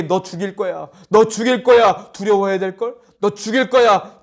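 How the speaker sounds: mock devil taunting the congregation; devil's threat.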